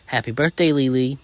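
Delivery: high, loud happy greeting; excited yell. A narrator's reading. Best friend runs up in the parking lot, yelling. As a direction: call it out to a friend. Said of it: "runs up to me yelling".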